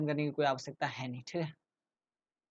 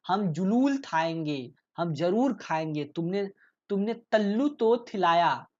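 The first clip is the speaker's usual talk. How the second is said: put-on pleading child; 4 dB louder, slower than usual. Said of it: "reads child's pleading line".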